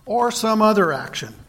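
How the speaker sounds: action given a light extra push; stress on action. Shown as a demonstration. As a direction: lean a little on the word action. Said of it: "Emphasis on the word action".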